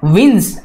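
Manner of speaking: विंस ending in a buzzing Z; buzzed S. Shown as a demonstration. Teacher shows students the buzzed Z at the end of विंस. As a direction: end विंस on a voiced Z, not a hiss. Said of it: "यहाँ पे बज करना है".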